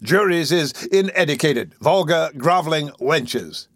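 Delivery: a touch of pompous indignation; rising temper. Acted. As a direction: work up into a blustering passion. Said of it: "working into a passion".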